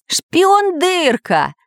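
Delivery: high, drawn-out exclamation; Самоделкин, cry of recognition. A narrator's reading. Iron man recognising the spy, high astonished cry. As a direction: cry out slowly, high-pitched. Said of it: "закричал Самоделкин".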